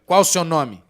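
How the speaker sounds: put-on loud, stern questioning of a possessed girl; stern demand. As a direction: demand her name sternly, like an exorcist. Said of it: "Olhei bem sério pra ela".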